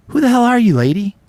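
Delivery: a high, loud snap at a stranger; indignant yell. Retold or imitated. Grieving friend yelling at the pushy nurse in the hospital, indignant and high. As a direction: push her back with the voice.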